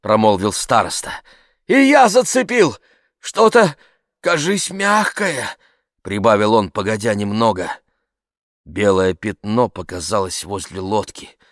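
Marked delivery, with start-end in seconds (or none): 1.7-5.5 high, loud start, then slowing; tense calling out. Acted. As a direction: announce an uneasy find from afar. Elder reports a catch from boat.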